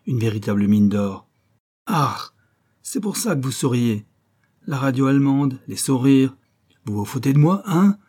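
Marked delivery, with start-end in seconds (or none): 1.9-8.0 higher, louder angry accusation rising to a shout; officer accusing the smiling couple; growing accusation. Acted. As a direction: build from suspicion to fury.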